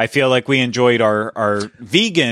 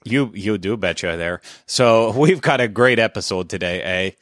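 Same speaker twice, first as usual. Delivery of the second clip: put-on Canadian accent. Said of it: "Canadian accent today".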